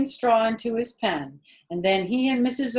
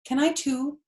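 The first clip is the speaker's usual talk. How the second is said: put-on eager little boy; 7 semitones higher, 4 dB louder than usual. Child asking.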